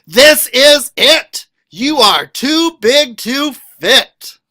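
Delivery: loud, high shout. Acted. Reader voicing a child shouting at the moose, loud. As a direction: belt it out like you're shocked. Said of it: "Would you shout".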